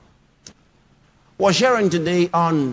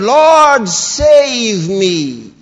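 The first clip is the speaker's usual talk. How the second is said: loud cry of Lord, louder and higher; 3 semitones higher, 6 dB louder, much slower than usual. Acted. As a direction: cry out for rescue like a sinking man. Acting Peter's cry for help.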